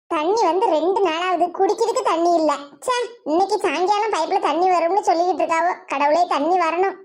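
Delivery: low-pitched villager's grumble; low grumbling. Acted. Villager fretting over no tap water, low grumbling.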